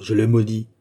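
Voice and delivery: emphatic curse with MAUDIS driven hard; intensified, weighty JE LE MAUDIS; forceful curse. A narrator's reading. Duke repeats curse more forcefully.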